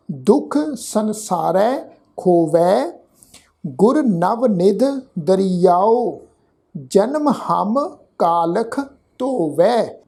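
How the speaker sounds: slow, measured Gurbani recitation; scripture recitation. Shown as a demonstration. Teacher recites scripture for the congregation to follow, slow and measured. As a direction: draw out each word, pausing between phrases.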